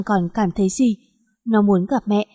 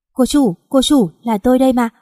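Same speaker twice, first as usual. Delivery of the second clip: calling out; 3 semitones higher, 4 dB louder than usual. Acted. Maid waking her, calling.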